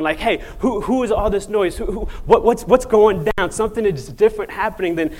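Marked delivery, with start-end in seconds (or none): 0.2-3.5 high-pitched, stammering demand to know; urgent questioning. Acted. Blind man stops someone running by, urgently asking about the noise. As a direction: grab a passer-by with agitated questions. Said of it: "reaching out to grab someone".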